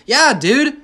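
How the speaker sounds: loud, high defiant retort; defiant yeah. Real, not acted. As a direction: bark it back at the mockers. Defiant comeback to mockers.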